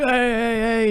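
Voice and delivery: mock yell. Rocky chasing the driver, yelling after him. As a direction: call after him like you're running him down.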